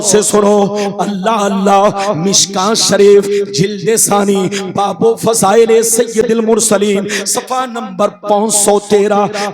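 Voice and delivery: sonorous preacher's chant, rising in the middle; hadith recitation. Real, not acted. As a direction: recite sacred text, stretching the phrase endings.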